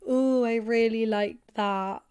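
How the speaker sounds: slow, drawn-out mock-sly compliment; sly hint. Example of hinting to a partner what you enjoyed, slyly. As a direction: stretch it out as a lightly sly hint. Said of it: "you can slyly say".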